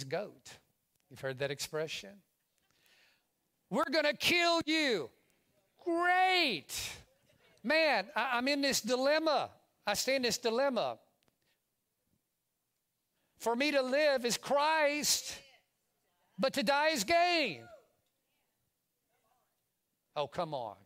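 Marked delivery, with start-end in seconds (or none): 3.7-5.1 high, loud acted threat; hammed-up shout from the captors; mock threat. Jailers threatening Paul, acted high, loud shout. 5.8-11.0 high, loud mock delight; hammed-up cry of welcome to a threat; acted elation. Paul answering his captors, hammed-up loud excitement. 13.4-17.7 high, loud, acted declaration; triumphant proclamation. Paul answering death threats, acted triumphant shout.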